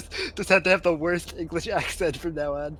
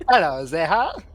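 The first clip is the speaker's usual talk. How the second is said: Cockney accent; slower than usual. Shown as a demonstration. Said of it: "Pretend that the future of these words are in Cockney".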